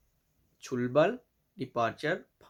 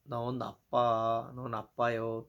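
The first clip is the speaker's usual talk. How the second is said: slow demo phrase; 3 semitones lower, much slower than usual. Shown as a demonstration. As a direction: spell out नो नापा हो slowly. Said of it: "कहते हैं ना". (धीमा, नरम उदाहरण वाक्य)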